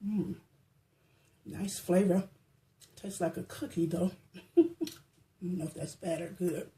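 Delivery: talking through a mouthful; chewing while talking; mouth full. Real, not acted. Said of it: "Excuse me for talking with my mouth full".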